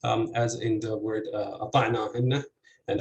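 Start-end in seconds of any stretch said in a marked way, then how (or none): 1.7-2.4 أطعناهن stressed on the second syllable. Shown as a demonstration. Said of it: "the second syllable is stressed".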